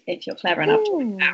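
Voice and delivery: hushed teasing aside; whispering. Real, not acted. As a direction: whisper it like a secret. Teasing secret clue.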